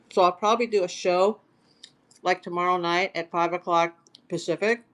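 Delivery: talking while crunching a cracker. Real, not acted. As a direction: mouth full of cracker. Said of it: "Excuse me, I'm crunching a cracker".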